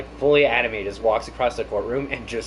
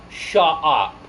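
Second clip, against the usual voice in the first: lightly imitated coarse British accent; down-to-earth British accent; 4 semitones higher, 3 dB louder than usual. Queen turns on the fiance, mock coarse British accent. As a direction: drop into rough, common British. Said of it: "down-to-earth British accents".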